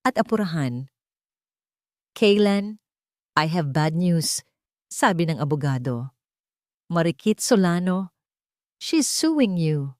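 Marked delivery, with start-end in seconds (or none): 2.2-10.0 serious urgent lawyer. Acted. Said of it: "Ang boses nito sa kabilang linya ay seryoso at apurahan".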